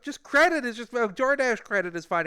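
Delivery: high, loud, hurried-sounding appeasement; re-enacting his rattled reply; nervous, flustered. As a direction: answer the yeller anxiously. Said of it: "he made me very nervous".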